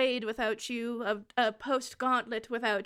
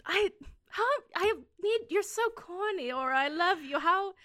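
higher, laughing through the words; laughing fondly; 6 semitones higher than usual. Acted. Cyrene laughing at Aura's corny line, then pleading. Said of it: "laughs and goes".

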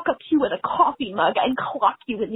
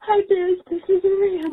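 crying; 3 semitones higher than usual. Real, not acted. Caller crying throughout.

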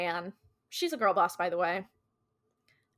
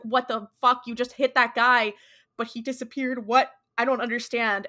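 loud, raised mock disbelief; retold shock, punched out loud; shocked outburst; 3 semitones higher, 5 dB louder than usual. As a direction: act out a bewildered passenger's alarm. Acted shocked passenger after hit.

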